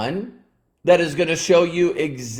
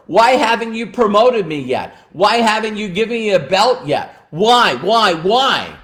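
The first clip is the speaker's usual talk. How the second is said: mock confrontational; 5 semitones higher than usual. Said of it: "they always confront their mentor".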